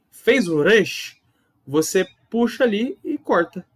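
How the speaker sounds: Fez o resh drawn out slowly; slow dictation. Shown as a demonstration. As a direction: pace it while drawing the letter. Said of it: "Faz só assim, ó".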